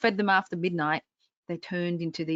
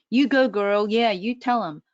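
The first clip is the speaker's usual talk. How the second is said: louder, upbeat cheer; cheering inner voice; 3 semitones higher, 4 dB louder than usual. Retold or imitated. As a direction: hype yourself up like a best friend.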